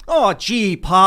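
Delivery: hammed-up golly-gee son; old-timey acting style. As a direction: play a fifties movie kid calling his father. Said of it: "the acting style where they were like".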